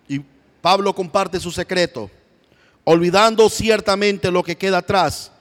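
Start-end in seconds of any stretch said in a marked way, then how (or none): 2.8-5.3 loud, higher reading; fervent proclaim. Acted. Preacher voicing Paul to church, loud and fervent. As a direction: call out to the brothers.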